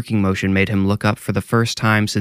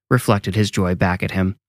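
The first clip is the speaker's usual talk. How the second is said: usual speaking voice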